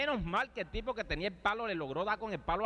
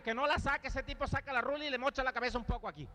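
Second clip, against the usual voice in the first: worried protest; 7 semitones higher than usual. Retold or imitated. Narrator's own worried reply at brawl.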